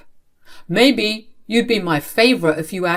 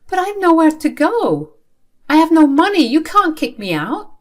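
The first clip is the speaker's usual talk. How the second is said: much higher, louder desperate plea; desperate panic; 10 semitones higher, 5 dB louder than usual. Acted. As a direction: plead in panic. Daughter learns she's kicked out.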